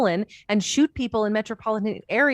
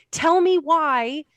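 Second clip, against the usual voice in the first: higher, slowly spaced demand; slow, higher, demanding "Tell me why"; 8 semitones higher, 4 dB louder, much slower than usual. Retold or imitated. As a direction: press the PM word by word, slowly. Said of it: "Oh, no, I'm getting mad".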